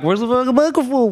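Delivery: high, put-on urgent demand; mock urgent. Podcaster retelling yesterday's restaurant talk, mock urgent. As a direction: demand it in a high, muddled rush.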